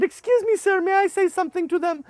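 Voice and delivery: high polite request; a timid interruption; polite translator. Retold or imitated. Translator asking the boss, high polite. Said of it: "my translator said".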